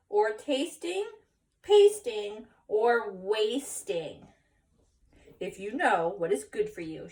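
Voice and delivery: drawn-out, emphatic motherly threat; slow stern warning. Acted. Mama lists what Skippy must not do, slow stern warning. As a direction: spell out each forbidden act, slowly.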